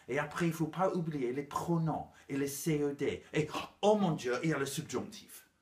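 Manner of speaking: lightly voiced parent listing grammar lessons; hint of a parent, building to mock dismay; mock parent teacher.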